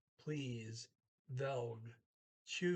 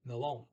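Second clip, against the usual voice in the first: "Melon" punched louder on its final syllable; stress on second syllable; 5 dB louder than usual. Shown as a demonstration. Teacher reminding learners what to emphasize, stressed second syllable. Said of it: "make sure you emphasize the long".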